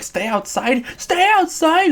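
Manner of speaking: high, indignant mimicry of April; mocking April. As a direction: squeak it out in disbelief. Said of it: "April's like".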